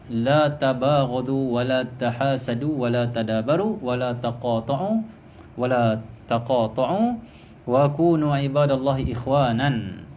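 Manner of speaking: slow, measured Arabic recitation; hadith recitation. Acted. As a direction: draw out each Arabic word deliberately. (bacaan hadis yang perlahan dan jelas)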